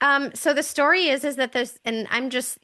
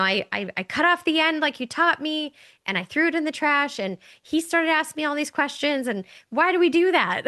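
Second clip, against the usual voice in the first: higher-pitched daughter's retelling; questioning daughter; 5 semitones higher than usual. Retold or imitated. Daughter phones mom about the roast, puzzled.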